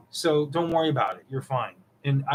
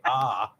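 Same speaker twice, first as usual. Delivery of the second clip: open-mouthed, lower "ah"; dentist "ah"; 4 semitones lower than usual. Shown as a demonstration. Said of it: "when you go to the dentist".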